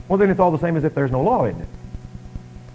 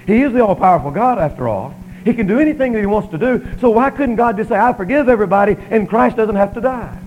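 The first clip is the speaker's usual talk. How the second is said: raised, insistent pulpit voice; emphatic preaching; 4 semitones higher, 5 dB louder than usual. Real, not acted. Preacher asking why God couldn't just forgive, emphatic preaching. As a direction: argue it out loudly from the pulpit. Preacher argues a challenge forcefully.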